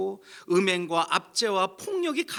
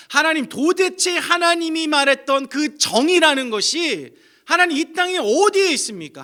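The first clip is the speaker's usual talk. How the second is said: impassioned, rising cry to God; angry protest; 3 semitones higher, 6 dB louder than usual. Acted. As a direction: demand an answer, loud and high. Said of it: "라면서 지금 하박국이 하나님께 항의하고 있는 거예요".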